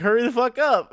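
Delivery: high, loud mock yell to hurry; retold Goku rushing Turtle, high loud yell; impatient yell. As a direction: bark it out, fed up. He's like.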